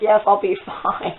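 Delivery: slow, drawn-out reply breaking into a laugh; stretched-out, half-laughed reassurance. Retold or imitated. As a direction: brush off worry with a small laugh. Brushes off friend's worry, laughing.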